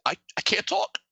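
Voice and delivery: a hint of choked-up tearful pleading, mostly in his own voice; imitating a man too upset to talk; mock crying. Retelling the podcast guest who can't talk through tears, lightly mock crying. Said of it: "pushing the microphone away and crying".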